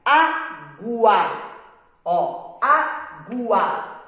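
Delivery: água said slowly, the U barely voiced; careful reading aloud. Shown as a demonstration. Teacher sounding out a word for pupils, slow and clear. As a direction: read água out slowly for the class. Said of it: "Ao ler esta palavrinha".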